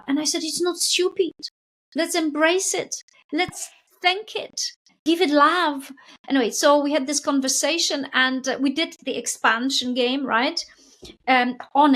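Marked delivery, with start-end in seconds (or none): 0.4-5.9 reassuring coach. Retold or imitated. Coach reassuring client about her fear.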